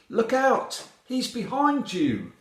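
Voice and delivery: high, loud alarm call; warning shout. A narrator's reading. Horse warns the heroine in story.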